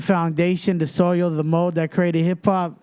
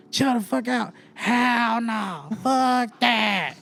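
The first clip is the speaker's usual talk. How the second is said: mock angry mom; 5 semitones higher, much slower than usual. Triggered mom repeating the stranger's words, higher mock rage. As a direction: toss it back at them, triggered. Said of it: "she got triggered".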